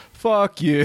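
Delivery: high mock snap at the teacher; retorting fuck you. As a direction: toss it back with a sneer. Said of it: "then they're just like".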